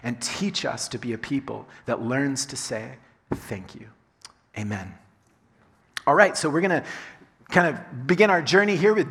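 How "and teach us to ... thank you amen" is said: soft, low prayer voice. Acted. Pastor praying softly to God before the sermon. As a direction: pray quietly to God.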